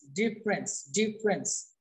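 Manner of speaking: ডিফারেন্স as two syllables, dif-rens; contracted pronunciation. Shown as a demonstration. Teacher drilling the corrected word, ডিফারেন্স said dif-rens. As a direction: repeat ডিফারেন্স without its middle vowel. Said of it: "মাথায় রাখবেন ডিফারেন্স না কিন্তু ডিফারেন্স".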